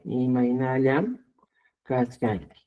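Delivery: drawn-out syllables, rising at the end; slow teaching pace, left hanging; slow dictation. Shown as a demonstration. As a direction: dictate slowly, holding the last syllable. Repeats the dictated words slowly.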